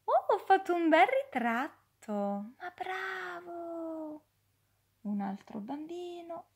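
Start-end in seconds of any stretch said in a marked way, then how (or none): 0.0-4.2 put-on proud child.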